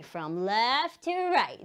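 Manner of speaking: slow, stretched teaching phrase; slow repeat-after-me delivery; drawn-out model phrase. Shown as a demonstration. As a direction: stretch "left" and "right" for learners.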